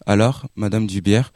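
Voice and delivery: usual speaking voice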